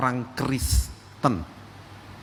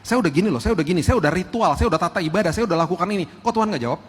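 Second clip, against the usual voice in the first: a hint of a whiny, entitled believer listing rituals; mock formula believer; 4 semitones higher, faster than usual. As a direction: imitate someone who treats faith as a checklist. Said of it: "Dia ikut Tuhan pakai formula". (jemaat yang merengek karena doanya belum dijawab)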